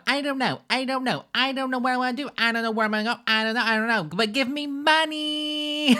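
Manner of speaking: very high, loud mock-helpless voice; hammed-up high-pitched begging; mocking whine. Mocks the streamer's confused pleading.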